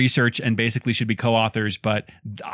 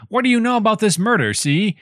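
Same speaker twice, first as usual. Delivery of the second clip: higher-pitched, quick New York wiseguy voice; New York accent; 9 semitones higher than usual. Acted. New Yorkie guy coming around asking about a murder, New York accent. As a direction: put on an old-time New York accent. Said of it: "that was my New York accent".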